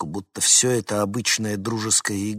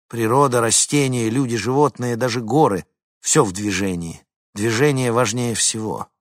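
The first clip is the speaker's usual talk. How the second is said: insistent lecturer; 4 dB louder than usual. Acted. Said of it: "ментор долго и многословно убеждал".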